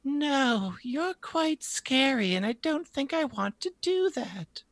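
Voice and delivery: high, ghostly whisper from far off; eerie disembodied voice. Acted. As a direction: unearthly voice fading into a whisper. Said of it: "hear this eerie, disembodied voice".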